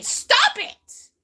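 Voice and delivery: high, loud yell to break up a fight; acted kid's yell. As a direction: snap them out of it with a sharp, high yell. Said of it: "I didn't know a kid could yell".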